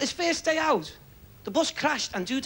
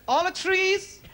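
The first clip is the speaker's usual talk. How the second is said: bingo caller shouting; 4 semitones higher, slower than usual. Retold or imitated. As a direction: sing out the bingo call across the hall. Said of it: "Irish fella shouting the bingo out".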